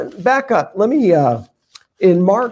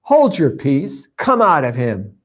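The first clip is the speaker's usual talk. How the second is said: a measured, stern rebuke, lightly voiced; Jesus rebuking. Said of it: "and he says".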